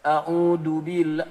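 A'udzu billah dragged out very slowly and loudly; student's slow reading. Retold or imitated. Old student recites A'udzu billah to his teacher, very slow and loud. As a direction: plod through A'udzu billah, slow and heavy. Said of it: "datang ke Al-Azhar Talaki".

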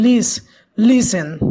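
"listen" stressed on LIS; stress on first syllable. Shown as a demonstration. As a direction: isolate lis-, then say "listen" leaning on it. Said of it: "el acento está en la primera sílaba". ("listen" con el acento en la primera sílaba, LIS-ten)

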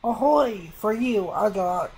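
hearty pirate ahoy; sailor voice. Acted. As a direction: call it out like a sailor. Reading sailor NPC dialogue.

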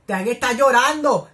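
distraught wail. Real, not acted. Viewer heartbroken as the character cries, slow loud wail.

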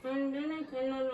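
muffled through tape over lips; mouth taped shut. Real, not acted. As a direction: talk with lips taped closed. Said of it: "ağzın bantlı".

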